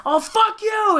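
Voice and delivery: high-pitched indignant mock yell. Host imitating the gingerbread man under attack, mock yelling. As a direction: yell it as an outraged cookie villain. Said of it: "gingerbread man, yelling".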